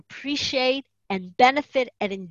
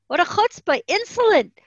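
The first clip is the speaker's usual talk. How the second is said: much higher and louder, enraged officer; furious yell; 10 semitones higher, 9 dB louder than usual. Retold or imitated. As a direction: bellow it at the girl in outrage. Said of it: "He yelled at her".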